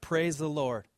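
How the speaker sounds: a light mock shout of Praise; mild shout. Old lady finds groceries on her porch, mild shout.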